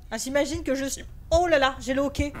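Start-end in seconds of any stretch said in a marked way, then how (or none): 1.3-2.3 hiccuping from stress; with hiccups. Real, not acted. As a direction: speak between hiccups. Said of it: "j'ai le hoquet à cause du stress".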